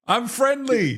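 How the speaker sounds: lightly voiced cat saying hello; voicing the cat. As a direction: speak for the shy cat, cutesy. Interviewer speaks for the cat.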